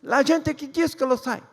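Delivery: put-on comic Italian Jesus accent. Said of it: "fosse italiano falando isso".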